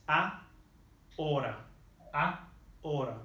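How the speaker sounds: "a, hora" split in two parts with no H sound; silent H. Shown as a demonstration. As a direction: say "a", pause, "hora", leaving the H silent. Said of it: "H in Spanish is never sounded".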